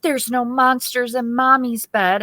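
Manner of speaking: mock scared crying. Son begging to leave his room, mock tearful fright. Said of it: "screaming, crying".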